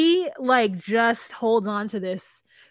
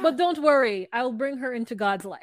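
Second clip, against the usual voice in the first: proud announcement; 3 semitones higher than usual. Retold or imitated. Acting out proud son.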